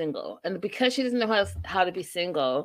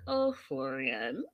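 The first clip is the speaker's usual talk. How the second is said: laughing disbelief; 4 dB quieter, slower than usual. Retold or imitated. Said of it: "And I was like".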